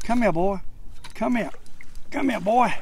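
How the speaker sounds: high, loud coaxing call; real excitement reeling in; excited coaxing. Real, not acted. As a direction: urge the fish in, thrilled. Reeling in a bass.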